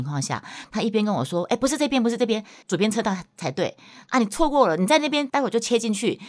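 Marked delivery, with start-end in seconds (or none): 1.5-6.2 higher, louder panicky backseat orders; husband yelling directions. Retold or imitated. Husband shouting at new driver wife, higher and louder. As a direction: bark out lane changes from the passenger seat.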